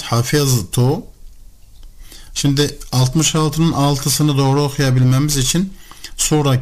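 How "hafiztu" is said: Hafiztu, slowly sounded out "ha-FIZ-tu"; Arabic reading. Shown as a demonstration. Teacher showing how to read the sentence, Arabic reading. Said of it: "Peki bunu nasıl okuyacağız?".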